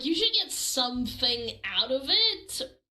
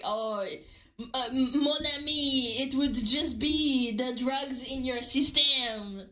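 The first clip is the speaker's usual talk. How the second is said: put-on French accent. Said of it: "when did you get a French accent?".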